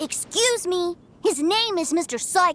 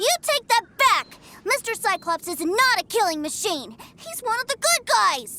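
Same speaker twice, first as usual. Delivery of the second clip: put-on upset child protest; 4 semitones higher than usual. Boy defends his toy.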